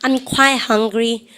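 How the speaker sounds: very slow, words stretched; slow sentence for the class to repeat; slow drill. Shown as a demonstration. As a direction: spell out the phrase slowly. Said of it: "시작".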